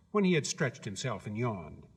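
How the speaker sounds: ordinary delivery, nothing marked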